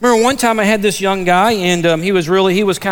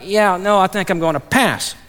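mildly sheepish retold refusal. Stranger declining to become a Christian, sheepish. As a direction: back out politely, tapering off at the end. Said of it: "The other individual's kinda sheepish".

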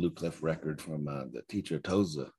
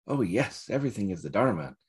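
sickly sweet; 3 semitones higher, 3 dB louder than usual. Retold or imitated. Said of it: "sickly sweet".

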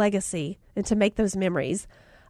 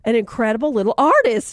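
delighted praise; 3 dB louder than usual. Retold or imitated. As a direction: gush over the little artist. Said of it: "And I was like".

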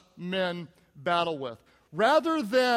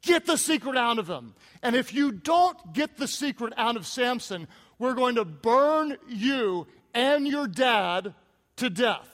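angry threat; 3 semitones higher, 3 dB louder than usual. Retold or imitated. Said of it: "and they say".

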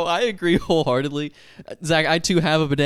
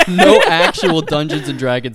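laughing through the words, a bit louder; 6 dB louder than usual. Real, not acted. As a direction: laugh while you complain about the sponsors. Laughing at the sponsor joke.

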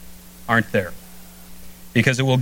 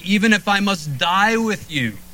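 Peter's vow, pitched higher and pressed hard; emphatic vow; 7 semitones higher than usual. Retold or imitated. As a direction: swear it like you mean it, pitch up. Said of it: "he says emphatically".

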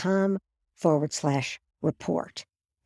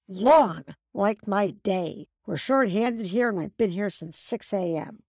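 same impatient tone. Retold or imitated. Overworked barista answers customer, with a touch of impatience. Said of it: "She replies with the same tone".

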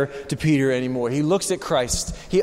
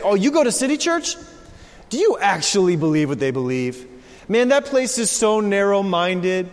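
scoffing critic. Retold or imitated. Mocking critics of the church.

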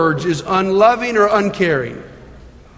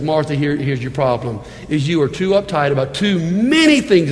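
straight to her face; 5 semitones lower than usual. Acted. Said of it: "looked her in the face and says".

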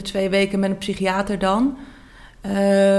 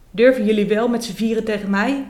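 mild read-aloud yell; 2 semitones higher than usual. Acted. Trapped girl yelling at the four adults, mild mock yell. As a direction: push the line out like a cornered child. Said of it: "schreeuw ik".

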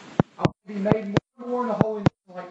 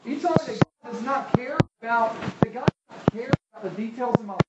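skeptical listener; 3 semitones higher than usual. Retold or imitated. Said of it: "Now you say".

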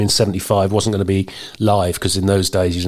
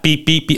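imitated censor beep; 6 semitones higher than usual. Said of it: "I'm gonna get a beep for this".

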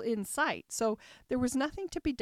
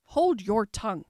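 loud order to shut up; sharp rebuke; 9 dB louder than usual. A narrator's reading. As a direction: cut the Violet off hard. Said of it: "cried the Tiger Lily".

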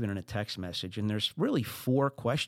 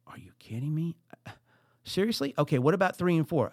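exasperated disbelief; 5 semitones higher than usual. Retold or imitated. Exasperated at ignored questions.

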